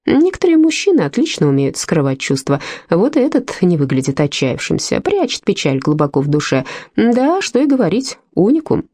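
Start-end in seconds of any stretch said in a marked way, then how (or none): none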